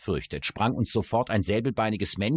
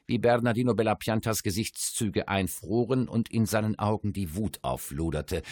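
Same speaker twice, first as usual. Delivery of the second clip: ordinary talk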